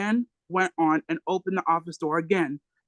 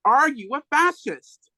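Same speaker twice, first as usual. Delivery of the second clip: higher, louder, slow and deliberate; Huey outshouts the cop, word by word; 7 semitones higher, 3 dB louder than usual. Retold or imitated. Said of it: "And Huey louder".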